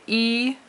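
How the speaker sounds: "E" held long, high and level; long first tone. Shown as a demonstration. Teacher showing a longer tone, high held "E". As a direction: stretch "E" on a steady high pitch. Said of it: "are both longer tones".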